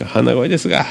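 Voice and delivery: stuffy head-cold voice; nasal voice. Real, not acted. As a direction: talk with a blocked nose.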